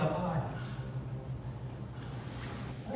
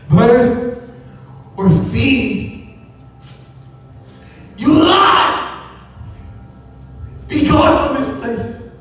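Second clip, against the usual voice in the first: furious command; 5 semitones higher, slower than usual. Acted. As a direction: drive the fiend out with rising fury. Man banishing raven from chamber.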